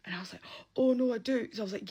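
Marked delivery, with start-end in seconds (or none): 0.8-1.5 higher, louder retold reassurance; hasty reassurance. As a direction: jump in to reassure, acting it out. Hasty reassurance to alarmed paramedic.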